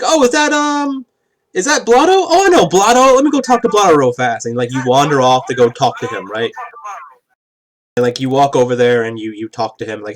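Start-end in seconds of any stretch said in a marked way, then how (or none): 0.0-4.5 much higher, louder, eager character voice; excited recognition. Acted. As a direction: squeal with delight at an old friend. Character excitedly spots Blotto.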